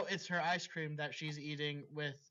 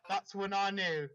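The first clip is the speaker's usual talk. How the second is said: dramatic read-aloud of a fanfic; story reading. Acted. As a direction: narrate it like the opening of a novel. S0 reads the dramatic story part.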